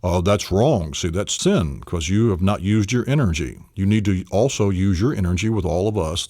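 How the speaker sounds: lightly voiced preaching monkey; a hint of a scolding minister; mild mock sermon. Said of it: "like a minister monkey".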